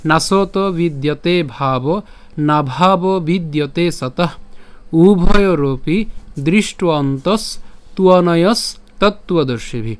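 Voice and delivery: slow, measured Sanskrit recitation; careful verse recitation. Shown as a demonstration. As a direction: recite phrase by phrase with clear pauses. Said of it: "তাহলে যদি আমি আবার বলি".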